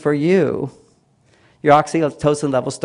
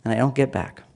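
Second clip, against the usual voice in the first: lightly voiced weary complaint; a mild mock grievance; complaining wife; 3 semitones lower than usual. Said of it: "they'll say".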